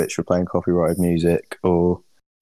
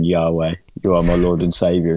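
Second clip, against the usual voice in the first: ordinary talk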